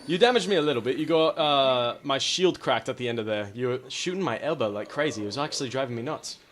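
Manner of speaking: loud, pompous gentleman; mock gentleman duelist. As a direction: boast like a courtly duelist. Gentleman voice to opponent.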